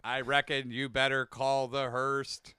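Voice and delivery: deliberate alien drawler; Alien Sling Blade. Acted. Friends riffing on alien monologues, Alien Sling Blade voice. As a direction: intone it like a deadpan alien drawler. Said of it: "Alien Sling Blade".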